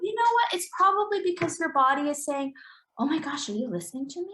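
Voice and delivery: high, eager voice of the body; the body finally being heard; excited body voice. Retold or imitated. Therapist voicing the client's body, excited. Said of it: "And I go".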